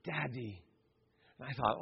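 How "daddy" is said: put-on Jamaican accent. Preacher repeating the Jamaican man's prayer, Jamaican accent. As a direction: lightly imitate a Jamaican, drawn out then hushed. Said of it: "in his Jamaican accent".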